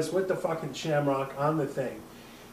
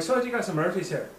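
put-on Irish accent; 5 semitones higher than usual. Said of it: "we're both doing Irish accents".

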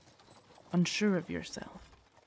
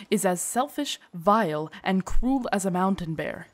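scornful condemnation; 5 dB louder than usual. Acted. Servant condemns the princess.

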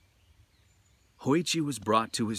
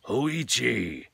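calling out his name, louder and higher; 4 semitones higher, 6 dB louder than usual. A narrator's reading. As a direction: summon him with a firmer call. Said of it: "louder this time".

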